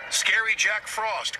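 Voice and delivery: high, loud, slow scared cry; frightened cry. A narrator's reading. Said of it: "cried James".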